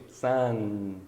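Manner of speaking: sun held on its N through a smile; smiling final N. Shown as a demonstration. Teacher asks students to smile, sun with a long N. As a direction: spread the lips and sustain the end of sun. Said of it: "Dá um sorriso".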